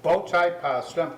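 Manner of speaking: talking through a mouthful; words round a bite of food; mouth full. Real, not acted. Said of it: "I got a blossom in my mouth".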